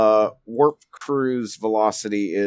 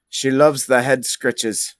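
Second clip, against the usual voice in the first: Grimnir. Acted. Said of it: "Grimnir's accent is terrible".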